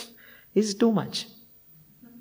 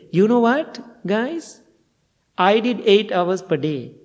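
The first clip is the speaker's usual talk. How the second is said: hammed-up bragging to the group; mock boast; 5 semitones higher than usual. Boast repeated a second time.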